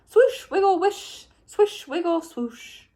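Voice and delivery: splash the words out like quick tails; playful sound words. A narrator's reading. Sound words of swimming tadpoles.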